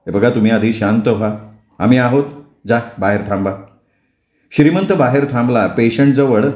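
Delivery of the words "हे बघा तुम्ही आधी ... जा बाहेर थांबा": lower, steady reassuring doctor; lightly voiced doctor, lower; calm doctor. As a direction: settle a scared husband.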